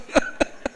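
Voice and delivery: short voiceless laugh; brief chuckle. Real, not acted. Preacher mocking show-off mourners, chuckling briefly. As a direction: let out a small dry chuckle.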